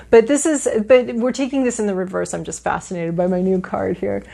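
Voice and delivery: ordinary talk, nothing marked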